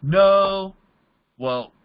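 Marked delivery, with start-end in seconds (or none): 0.0-0.7 a touch of the whiny recruit voice; mock whiny prospect. Recruit answering his mentor, mildly whiny. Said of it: "It's still not working?".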